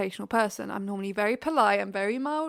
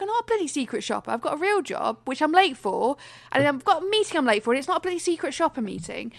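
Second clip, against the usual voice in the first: irritated rant; 3 semitones higher than usual. Retold or imitated. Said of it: "went off on one".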